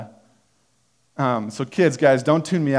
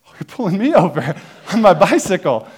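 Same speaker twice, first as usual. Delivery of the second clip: loud, high, laughing; laughing disbelief; 7 semitones higher, 7 dB louder than usual. Retold or imitated. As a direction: laugh through it, amazed. Amused at being pulled over.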